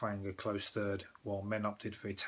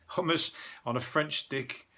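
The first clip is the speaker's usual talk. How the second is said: "hummus on a French stick" said higher and louder, scoffing; mock the headline, leaning on "hummus"; mocking emphasis; 5 semitones higher, 3 dB louder than usual. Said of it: "what's the point in mentioning the French stick and hummus?".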